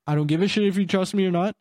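put-on irritated brush-off to the drunk caller; blunt dismissive. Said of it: "I didn't say".

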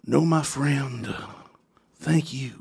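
slow, drawn-out imitated thanks; Jake the Snake. Wrestler answering the moderator's thanks, slow imitated voice. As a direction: let each phrase hang, a hint of the wrestler. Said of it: "And he goes".

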